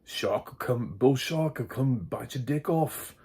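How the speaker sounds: put-on a clumsy Aussie accent; bad Australian accent. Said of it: "really bad Australian accents".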